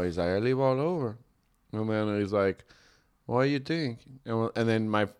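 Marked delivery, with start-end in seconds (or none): 0.3-1.2 put-on soft Mexican-accented cab driver. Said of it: "the quintessential Mexican accent". 3.3-4.0 put-on soft Mexican-accented cab driver. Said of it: "the quintessential Mexican accent".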